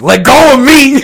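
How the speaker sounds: high panicked yell with a laugh; fluttering cries for help. Acted. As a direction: squeal to be let go. Acting pinned wrestler's cries.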